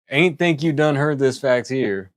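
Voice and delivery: put-on sexy Arthur Morgan cowboy accent. Streamer answers chat's request, hammed-up cowboy drawl. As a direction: lean into a smooth western drawl. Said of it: "a sexier Arthur Morgan accent".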